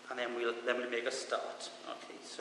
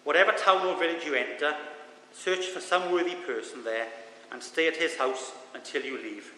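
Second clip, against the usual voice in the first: scripture reading. Acted. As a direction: read the passage with weight. Reads scripture aloud.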